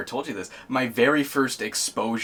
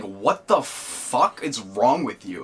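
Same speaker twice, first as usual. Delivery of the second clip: stunned disbelief; much slower than usual. Retold or imitated. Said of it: "I was like, blown".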